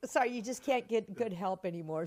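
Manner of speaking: high, loud, posh rich-lady ad-lib; flustered stage ad-lib. Retold or imitated. Actress covering a forgotten line onstage, loud and high. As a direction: bluff it as the grand rich lady.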